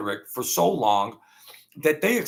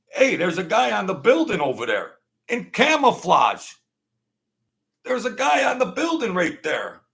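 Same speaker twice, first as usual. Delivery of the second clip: higher, louder urgent call; urgent warning; 7 semitones higher, 4 dB louder than usual. Retold or imitated. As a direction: warn the troopers urgently. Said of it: "told either the sheriff".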